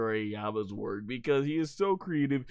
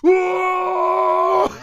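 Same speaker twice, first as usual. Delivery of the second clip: much higher, louder whoa; startled shout; 11 dB louder than usual. Retold or imitated. Villain flying toward the screen, loud startled shout. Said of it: "he's like".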